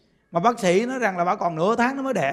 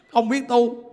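ordinary talk, nothing marked

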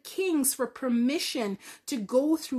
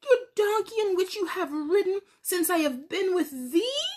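lightly voiced donkey, a bit higher and pleading; a hint of a hurt donkey; 5 semitones higher than usual. Talking donkey pleading with Balaam, lightly voiced and higher. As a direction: gently ask why you were beaten. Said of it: "And the donkey said".

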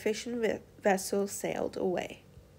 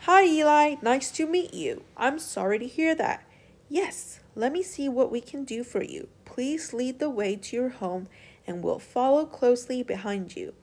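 kindly; 4 semitones higher, 4 dB louder than usual. Acted. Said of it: "one of the sailors kindly responded".

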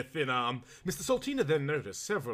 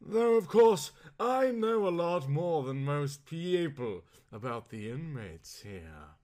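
lightly voiced Procurio; slower than usual. Servant telling visitor what he knows of the inmates, lightly put-on voice. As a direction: draw it out as a well-informed servant.

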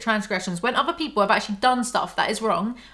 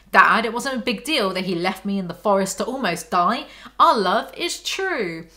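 mocking dreamy Bella. Parodying Bella to her dad.

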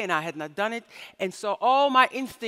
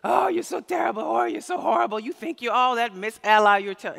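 mock self-berating shout; 5 dB louder than usual. Lecturer mocks her own guilt spiral, shouting at herself. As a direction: beat yourself up in a hammed-up rant. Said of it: "I wanted to do this".

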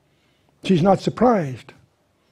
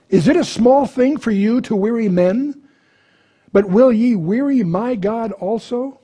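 raised, proclaiming Bible reading voice; scripture reading; 7 semitones higher than usual. Acted. Teacher reads Isaiah aloud to the class, raised proclaiming voice. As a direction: read it out like the prophet speaking.

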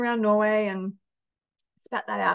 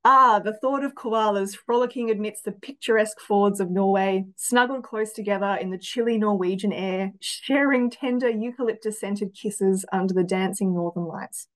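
romantic reading. Acted. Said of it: "a romantic answer".

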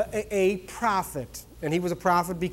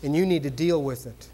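low, softer, grave mock warning; mock solemn prophet; 7 semitones lower, 5 dB quieter than usual. A prophet pronounces sin over a churchgoer, mock grave. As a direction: play the serious prophet with a hushed, heavy tone. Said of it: "this very serious look, they'll say".

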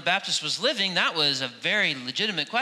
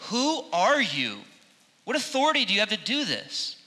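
hostile questioning; 6 semitones higher than usual. Retold or imitated. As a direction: demand it like a hostile official. Hostile delegation questioning John.

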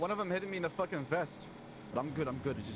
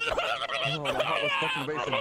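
much higher, louder breathless rush after the chase; adrenaline rush; 6 dB louder, slower than usual. Real, not acted. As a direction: blurt it out, heart still pounding. Shaken player after a wild chase.

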